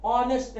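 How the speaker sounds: ऑनेस्ट starting on the vowel, h silent; ऑनेस्ट said as "on-est"; correct pronunciation demo. Shown as a demonstration. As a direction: drop the h in ऑनेस्ट. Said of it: "अ बोल रहे हैं".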